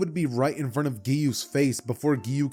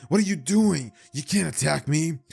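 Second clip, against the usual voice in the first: higher, worked-up shonen hero dialogue; casual Bakugo voice; 3 semitones higher, 3 dB louder than usual. Acted. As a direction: plead urgently, pitched up, with punchy stresses. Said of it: "in the casual Bakugo voice".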